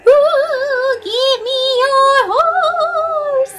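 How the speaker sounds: high, slow sung ghostly moan; eerie high ghost voice pleading for a horse; spooky ghost. Acted. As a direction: wail it out like a haunting spirit. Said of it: "Oh, that's a spooky voice".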